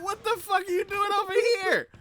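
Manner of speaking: startled high-pitched yell; shout. Retold or imitated. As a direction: yell it out in shock. Startled yelling at pet in game.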